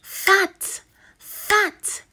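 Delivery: high bright teacher voice on fat; chirpy high phonics voice; high sing-song blend. Shown as a demonstration. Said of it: "teacher sings word high".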